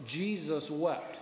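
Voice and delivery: slow, solemn reading of the verse; slow recitation. Shown as a demonstration. Pastor leading the church in the verse, slow and solemn. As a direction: say it slowly for the congregation to repeat. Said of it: "Now just say that with me".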